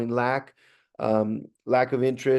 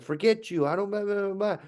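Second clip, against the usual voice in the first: higher-pitched mock brush-off; mock dismissive student; 8 semitones higher than usual. Student refusing the teacher's offer to talk, mock dismissive. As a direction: imitate a kid waving the teacher away.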